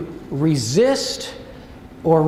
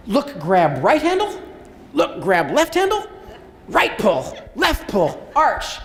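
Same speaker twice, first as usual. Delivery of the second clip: deliberate, slowed-down walkthrough of the steps; a paced drill count; slow demo count; slower than usual. Shown as a demonstration. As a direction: call each step out slowly, like teaching a student. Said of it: "Usually faster than that".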